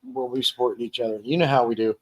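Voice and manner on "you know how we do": talking through hiccups; hiccuping between words. Real, not acted. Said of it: "I get the hiccups there".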